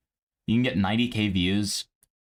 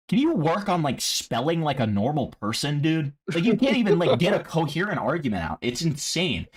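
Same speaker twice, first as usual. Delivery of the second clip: higher-pitched, incredulous scolding; exasperated rant; 6 semitones higher than usual. Real, not acted. Streamer answering Vincent's badly spelled message, exasperated. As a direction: hit back at him, voice climbing.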